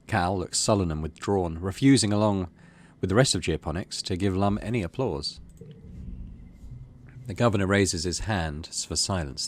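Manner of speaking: steady storytelling read; story narration. Acted. Player reads the game's event aloud as story narration.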